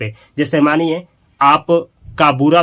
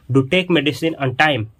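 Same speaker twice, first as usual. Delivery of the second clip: slow emphatic; 2 semitones lower, much slower than usual. Shown as a demonstration. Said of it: "जोर दे करके बोलेगा".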